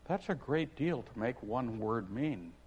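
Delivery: quiet thoughtful Alice. Acted. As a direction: turn it over in your head. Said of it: "said in a thoughtful tone".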